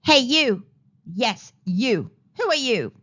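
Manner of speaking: loud challenge from an ant guard; sharp questioning. A narrator's reading. Ant challenging the intruder, loud questioning. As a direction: call out loudly to a stranger. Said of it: "an ant questioned".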